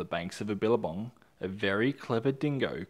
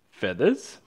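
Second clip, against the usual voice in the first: surprised question; 7 dB louder than usual. Acted. Dingo surprised.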